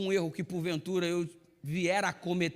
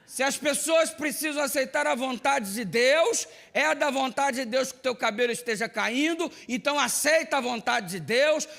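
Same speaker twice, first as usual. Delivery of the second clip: higher, louder, insistent mother lecturing her son; 7 semitones higher, 5 dB louder than usual. Retold or imitated. Pastor voices his mother lecturing him about baldness, higher and louder. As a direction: preach at him the way mom does, with a laugh near the end.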